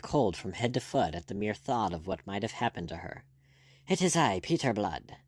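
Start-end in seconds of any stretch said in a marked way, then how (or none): 3.9-5.2 gasped. Acted. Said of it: "he gasped".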